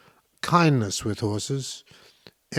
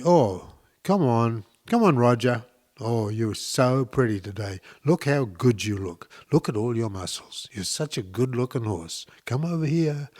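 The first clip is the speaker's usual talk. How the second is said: nice, coaxing; 3 dB quieter than usual. Shown as a demonstration. Showing how to call Roger over, nicely. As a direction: coax the horse over kindly, softening as you go. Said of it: "So say something nice".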